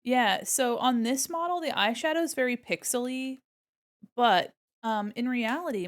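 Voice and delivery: ordinary talk, nothing marked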